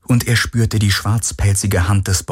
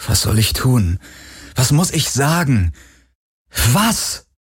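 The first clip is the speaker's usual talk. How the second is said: questions climbing sharply in pitch; rising exasperated plea; frustrated pleading; 5 semitones higher than usual. A narrator's reading. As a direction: demand an answer, more desperate each time. Frustrated plea to the silent Helix.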